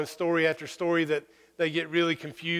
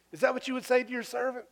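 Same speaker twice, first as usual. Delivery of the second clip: incredulous challenge; 8 semitones higher, faster than usual. Retold or imitated. Jesus challenging the disciples.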